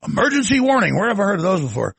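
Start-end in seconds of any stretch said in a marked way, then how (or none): 0.1-0.9 Mark Levin voice. Retold or imitated. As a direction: sound the alarm like a fired-up talk radio host. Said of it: "Do the Mark Levin voice".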